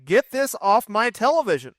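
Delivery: mock the fans' exasperated complaint; fed-up fans. Acting out fed-up wrestling fans.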